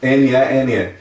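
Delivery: slow letter-by-letter spelling. Shown as a demonstration. Teacher spells N, E, N, E for the class. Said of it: "se você acrescentasse mais um E".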